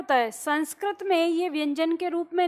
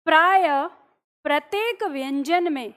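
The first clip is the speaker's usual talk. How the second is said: dictation. Shown as a demonstration. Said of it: "अगला point आपको लिखना है".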